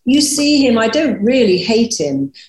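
put-on a light take on an anxious young son; young son pleading. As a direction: quickly reassure Mummy like a little boy. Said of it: "and he said".

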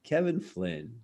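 a hint of a bitter old star brushing off a fan; Mickey Rooney. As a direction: savour the name, then drop the insult slowly. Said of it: "And he looks at me and goes".

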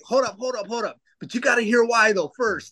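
hold up. Retold or imitated. Retelling his reply to friends.

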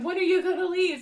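imitating someone pounding to get in; impatient door-pounder. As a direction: call it through a door, fed up. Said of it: "the dude's pounding on the door".

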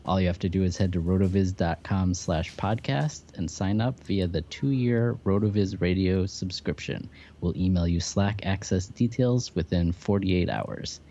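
upbeat promo read, smooth and steady; hard sell ad. Acted. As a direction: sell the offer like a radio spot. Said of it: "sponsor promo read over music".

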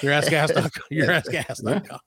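radio voice. Pretend. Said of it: "the radio voice".

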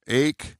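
clipped-off word ending with no T; T left off. Shown as a demonstration. Showing the co-host words without T, T dropped. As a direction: say the word as "ache", minus its T. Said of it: "take the T out of every".

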